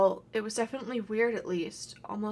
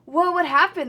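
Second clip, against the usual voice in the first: surprised; 6 semitones higher, 8 dB louder than usual. Acted. Kids find a trashed room.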